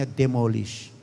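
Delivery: demolish said low and soft, falling; soft demo. Shown as a demonstration. Pastor modelling the word softly for the congregation. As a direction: drop the voice on demolish, hushed. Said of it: "Pinasasabi lang natin".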